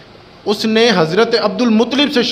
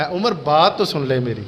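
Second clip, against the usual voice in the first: soft, lowered, pleading appeal to Umar; in his own tone; 5 semitones lower, 3 dB quieter than usual. Shown as a demonstration. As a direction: lower and softer, a humble plea. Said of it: "اب وہ اپنے لہجے میں ہے".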